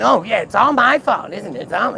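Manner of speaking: high, loud mock martyr act; sarcastic mimicry. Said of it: "she keeps coming".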